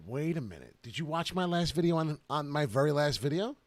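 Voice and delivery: normal talking voice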